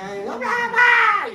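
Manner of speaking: slow, high wailing cry for mom; a frightened kid yelling for mom; scared child. Retold or imitated. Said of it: "el niño me miraba así, y decía". (niño asustado llamando a mamá)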